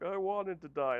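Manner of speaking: high, loud mock protest; rescued man complaining. Saved man complaining to his rescuer, high mock protest. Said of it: "and he's like".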